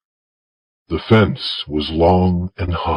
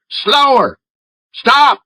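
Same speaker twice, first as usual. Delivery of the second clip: shouted order; slower than usual. Acted. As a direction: call the stop like a riverboat captain. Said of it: "he shouted".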